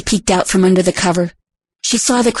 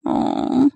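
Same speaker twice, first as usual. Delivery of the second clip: quiet moan; 7 semitones higher than usual. Acted. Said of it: "A quiet moan escaped".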